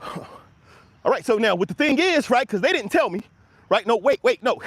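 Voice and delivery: a lightly voiced comic rant, starting with a sigh and a breathy all right; a hint of a fast-talking standup; Kevin Hart impression. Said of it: "that's my Kevin Hart impersonation".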